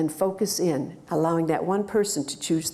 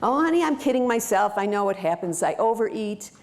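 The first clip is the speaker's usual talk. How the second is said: client admitting; 3 semitones higher than usual. Shown as a demonstration. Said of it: "actual coaching conversation".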